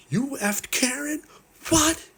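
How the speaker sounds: hammed-up nerd shocked by the news; mock shock. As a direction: shriek it in outraged disbelief. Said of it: "he's like".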